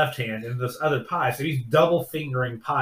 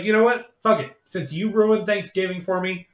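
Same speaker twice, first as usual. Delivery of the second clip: higher, louder, hammed-up defiance; mock defiant; 5 semitones higher, 4 dB louder than usual. Guy telling stepmom he's done caring, mock defiant. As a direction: fling it out like giving up.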